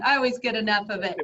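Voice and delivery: quick words with a laugh in them. Real, not acted. Host praising a guest's accent, laughing. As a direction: giggle through the compliment.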